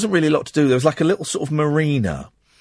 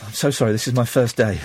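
apologise, then run out of breath with a squeaky intake; getting all breathless. Retold or imitated. Nervous new ticket seller apologising, mock breathless. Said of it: "she was getting all breathless".

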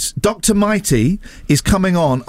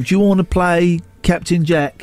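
impression of Will; slower than usual. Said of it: "it's not a good impression".

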